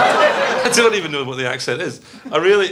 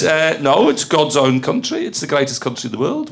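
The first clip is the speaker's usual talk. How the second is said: lower, attempted Wolverhampton accent; 4 semitones lower than usual. Performer insisting on the clue, in a Wolverhampton accent. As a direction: keep up a rough Wolverhampton accent. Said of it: "So now I'm doing Wolverhampton".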